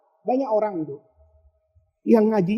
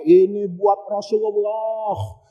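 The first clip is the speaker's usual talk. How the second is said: pious excuse; slower than usual. Retold or imitated. Husband justifies his donation.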